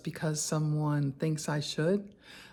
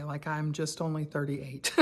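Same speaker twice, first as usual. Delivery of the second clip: laughing; 3 semitones lower, 5 dB quieter than usual. Real, not acted. Laughs about her age.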